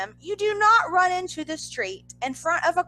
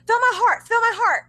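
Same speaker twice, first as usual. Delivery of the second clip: higher and louder, imitating a frantic fan; mock panicky fangirl; 10 semitones higher, 6 dB louder than usual. Fan begging her friend to feel her heartbeat, mock frantic. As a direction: play up the swooning fan begging to be touched. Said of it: "and she's like".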